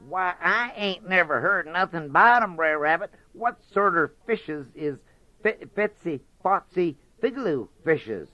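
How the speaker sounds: high, faltering fox voice; hesitant Brer Fox. Acted. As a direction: stammer it out, curious fox.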